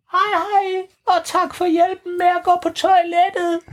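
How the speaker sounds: high relaxed vampire count; high Grev Bo voice. Acted. Grev Bo reassuring the kids, high and calm. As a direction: calmly shrug off the danger.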